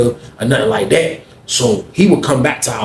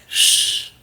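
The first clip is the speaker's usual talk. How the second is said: unvoiced shush; soft hiss to keep it quiet; hushing; 5 dB quieter than usual. Cellmate hushes him so nobody hears, unvoiced.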